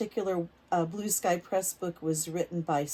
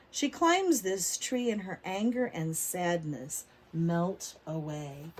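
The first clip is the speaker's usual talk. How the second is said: put-on reading to children. A narrator's reading. Teacher reading a picture book aloud to kids. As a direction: lively, clear storybook reading for little ones.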